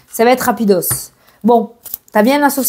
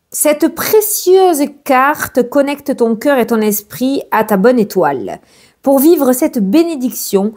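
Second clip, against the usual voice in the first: slow, gentle reading of a card message. Acted. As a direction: read it like a soothing oracle message. Reads the card message aloud.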